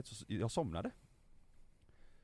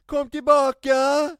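very high full yell, drawn out; imitated screaming mum; 12 semitones higher, 14 dB louder, slower than usual. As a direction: holler down the aisle like a mum. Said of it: "då skriker mamma". (skrikig mammaröst, härmad)

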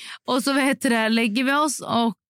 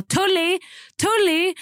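calling out a name; 10 semitones higher, much slower than usual. Retold or imitated. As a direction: call the name out like a roll call. Receptionist calling out names, roll call.

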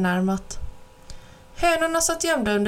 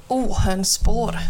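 scornful snort; slower than usual. Acted. Old man scoffing at the cat's made-up word, snorting. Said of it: "fnyste gubben".

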